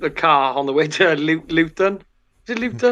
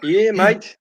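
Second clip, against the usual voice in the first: higher mock Australian drawl; Aussie accent; 4 semitones higher than usual. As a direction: try on an Australian twang. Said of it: "we used to do the Aussie one".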